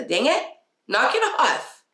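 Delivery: high, sharp, exasperated snap; firm knock it off. Shown as a demonstration. Parent fed up with a child's behavior, sharp high snap. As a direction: blurt it like a fed-up mom. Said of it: "And there's a time for the".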